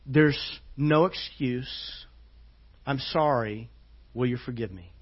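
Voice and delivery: a father quietly asking his son's forgiveness; tender apology. Retold or imitated. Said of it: "a very tender moment".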